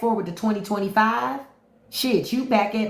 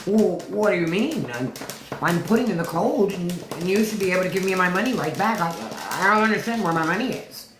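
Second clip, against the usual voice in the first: whiny mock Elon, fast and confused; imitating Elon; faster than usual. Mocking Elon at the bank, whiny confused voice. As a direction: play a baffled rich man demanding his money. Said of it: "that's how he talks".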